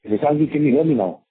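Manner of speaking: speaking up. Real, not acted. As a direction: raise your voice over the line. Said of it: "I'm gonna speak up again".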